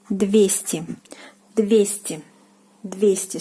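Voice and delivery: двести with the stress on ye, "DVYE-sti"; двести stressed on the first syllable ye. Shown as a demonstration. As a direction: repeat двести slowly, stress on ye. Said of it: "the stress is on ye".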